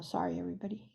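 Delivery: soft embarrassed laugh through it; laughing apology. Real, not acted. Laughs at own slip.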